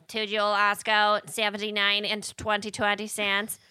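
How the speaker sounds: put-on machine reads it in Chicago accent. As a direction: read out like a Chicago receipt printer. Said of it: "I love your Chicago accent".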